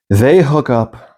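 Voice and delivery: slow, deliberate repeat of the punchline; drawn-out climax. Real, not acted. Storyteller repeating the hook-up ending, slow and emphatic. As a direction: let each word hang.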